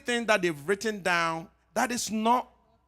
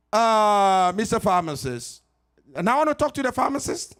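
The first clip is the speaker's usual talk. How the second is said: caller asking for the pharmacist, pitched up and quick; lightly voiced caller asking for the pharmacist; caller on the phone; 3 semitones higher, 4 dB louder than usual. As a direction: play the impatient caller.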